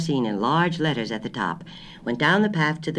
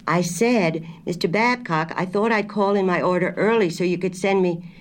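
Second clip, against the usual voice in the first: higher, insistent repeat on the phone; mildly raised, higher-pitched telephone voice; slightly raised voice; 6 semitones higher, 3 dB louder than usual. A narrator's reading. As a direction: raise your voice a little to be understood. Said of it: "raised her voice a little".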